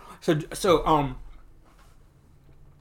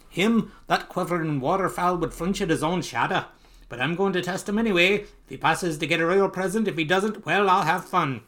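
really bad Scottish accent, higher and louder; Scrooge in a bad accent; 5 semitones higher, 3 dB louder than usual. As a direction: play a grumbling miser with a hammed-up Scottish burr.

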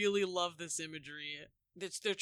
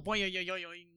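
bouncy mock "boing" sound effect; cartoon spring noise. Co-host mimicking slinkies on eyeballs, cartoon boing.

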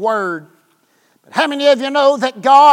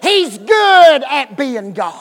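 loud; 4 dB louder than usual. Real, not acted. Repeated line, first take.

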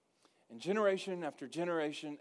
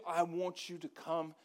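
sincere invitation; 3 semitones higher, slower than usual. Shown as a demonstration. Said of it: "Say it like that".

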